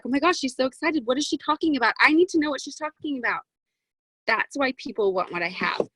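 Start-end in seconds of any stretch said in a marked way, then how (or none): 0.0-3.4 a touch of rising eager curiosity; mock curious listener. Imitating a viewer hooked by her excitement, mildly eager. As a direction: lightly act an intrigued viewer getting hooked. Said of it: "And then you're like".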